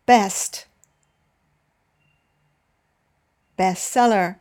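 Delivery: "best" then "bestseller" with the first syllable punched; teacher models cue and answer, stressing the first syllable; stress on first word. Shown as a demonstration. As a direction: example drill stressing "big" in "big bang". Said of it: "Now you go on in the same way".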